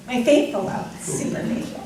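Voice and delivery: giggling through the words; laughing. Real, not acted. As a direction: start cracking up on it. Bride cracks up mid vow.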